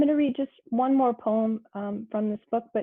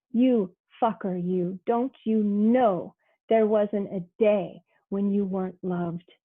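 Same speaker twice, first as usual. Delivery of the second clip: tender. Retold or imitated. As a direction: say it like a grandmother's endearment. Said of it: "but said tender".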